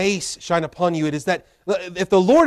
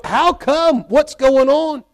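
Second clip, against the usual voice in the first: bewildered plea; 8 semitones higher, 4 dB louder, slower than usual. Retold or imitated. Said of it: "and he's going".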